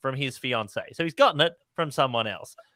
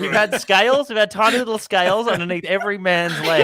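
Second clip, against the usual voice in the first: laughing; 6 semitones higher, 5 dB louder than usual. Acted. Laughing mock official report.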